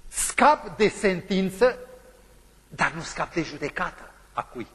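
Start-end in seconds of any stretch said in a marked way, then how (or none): 0.1-1.8 "de" drawn out, very slow and loud; stress on de. Acted. Preacher to the congregation, "de" held long and loud. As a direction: weigh each word of "Scap de sentință". Dramatic stress on escaping sentence.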